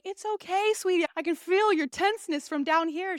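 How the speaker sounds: sweet reassurance. Retold or imitated. Imitates doctor comforting patient.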